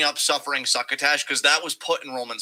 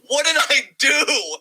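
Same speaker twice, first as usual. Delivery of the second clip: higher, slow, broken plea; stunned Jey; 12 semitones higher, 5 dB louder, slower than usual. Retold or imitated. Jey Uso asking Roman after the chair hit, higher, slow and bewildered. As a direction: ask it like a beaten man with no idea why. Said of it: "first thing Jey could think to say".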